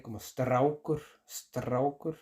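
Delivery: Straucher said with an Icelandic st; teacher models Straucher for Spanish-speaking learners; Icelandic st sound. Shown as a demonstration. Icelandic pronunciation. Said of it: "S T".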